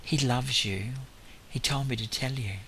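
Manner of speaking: soft, gentle reassurance; softened voice, quietly imitating his own words; retold gentle murmur. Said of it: "gently into his ear, saying".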